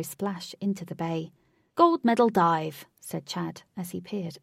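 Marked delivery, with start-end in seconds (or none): 1.7-2.9 loud, drawn-out higher exclamation; impressed call. A narrator's reading. Chad to the crowd about the dive, impressed call. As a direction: call it out slowly and loudly.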